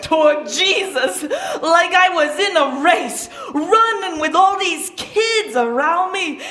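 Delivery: breathless and thrilled, with a laugh in it; telling the crowd his mad dash, excited and laughing; excited rush. Acted. Boy recalling running to Jesus, excited and laughing.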